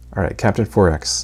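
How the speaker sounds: ordinary talk, nothing marked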